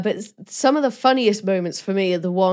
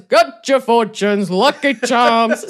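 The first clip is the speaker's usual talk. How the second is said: regular voice; 3 semitones higher, 5 dB louder, slower than usual. Retold or imitated. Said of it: "doing his regular voice".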